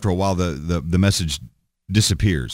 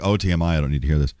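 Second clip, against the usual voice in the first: put-on valley girl voice; 5 semitones lower, much faster than usual. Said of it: "I just sounded like a little valley girl".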